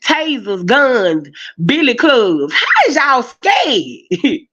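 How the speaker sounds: slow, high disbelieving question; incredulous. Real, not acted. Mocking police for being scared, incredulous. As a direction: drag out the disbelief.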